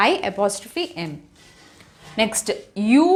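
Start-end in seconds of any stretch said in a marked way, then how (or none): 0.1-1.1 unhurried letter by letter spelling; slow spelling out. Shown as a demonstration. Teacher spelling a contraction slowly for students. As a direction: spell "I apostrophe M" slowly and a little softer. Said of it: "I am వచ్చినప్పుడు I'm అని వస్తుంది".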